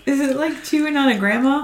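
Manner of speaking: laughing through the question. Real, not acted. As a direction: giggle the words out. Joking while laughing.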